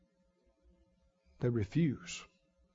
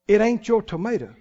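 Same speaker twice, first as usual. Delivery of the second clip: chuckling through the punchline; laughing; 4 semitones higher, 4 dB louder than usual. Real, not acted. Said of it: "punchline said with laugh".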